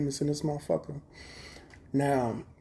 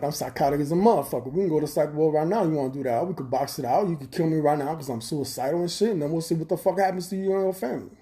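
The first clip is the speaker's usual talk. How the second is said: threatening rant; 4 semitones higher, 4 dB louder than usual. Retold or imitated. Threatening the gang member in retelling.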